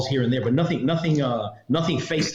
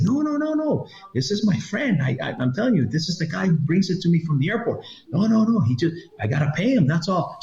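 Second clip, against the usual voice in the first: much higher, frantic pleading; pleading smuggler; 5 semitones higher than usual. Retold or imitated. Peruvian guy vouching for the agent, high frantic pleading. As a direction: talk her round, desperate. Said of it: "And he's like".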